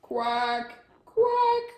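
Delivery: long loud quacks climbing high; stretched, squawky duck quacks; duckling's quack. A narrator's reading. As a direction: quack big and drawn out. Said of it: "but out came a quack".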